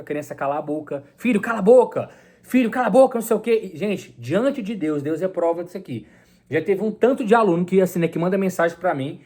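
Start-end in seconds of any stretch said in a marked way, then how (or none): 1.2-3.2 a mock-stern father snapping at his son, a bit higher and louder; hammed-up scolding, shutting the child up; imitating a harsh father. Father tells his stuttering son to shut up, mock harsh. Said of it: "O pai já mandou calar a boca".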